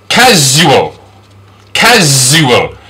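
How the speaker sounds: "casual" slowly, with a buzzing z in the middle; voiced z. Shown as a demonstration. Teacher modelling letter S, "casual" said with a long z. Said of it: "This is the z sound".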